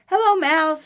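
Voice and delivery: high-pitched little duck; cheery duck greeting. Acted. Duck greets mouse from the bike, high duck call. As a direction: pitch it up to say hello.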